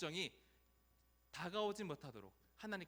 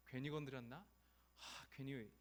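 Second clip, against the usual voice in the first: muttered second thoughts; worried self-talk; 2 semitones lower, 5 dB quieter than usual. Acted. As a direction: softly fret to yourself. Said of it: "이런 고민이". (후회하듯 혼잣말로)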